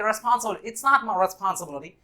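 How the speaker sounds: put-on light American accent, slow; it's not my responsibility, Hollywood style; mild American film accent. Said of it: "कुछ इस तरह से pronounce हुआ".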